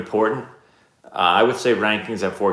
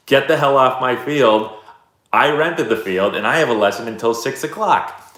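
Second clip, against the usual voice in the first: retold yell, a bit louder and higher; 4 semitones higher, 4 dB louder than usual. Baseball coach retelling telling the lacrosse coach off, mild mock yell. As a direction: tell him off hard. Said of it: "I yelled at this guy".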